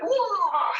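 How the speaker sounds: playful surprised whoa; mock surprise. Shown as a demonstration. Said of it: "You can be like".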